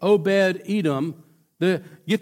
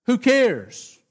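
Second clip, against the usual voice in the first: dismissive; 5 semitones higher than usual. Retold or imitated. Echoing David's careless attitude.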